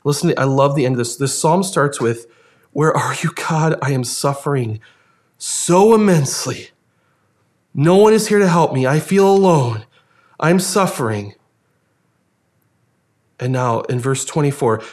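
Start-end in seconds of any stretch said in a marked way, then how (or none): 2.7-11.3 anguished lament. Acted. Preacher voices the psalm's sufferer crying to God, anguished lament. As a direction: start restrained, then rise into a pained cry.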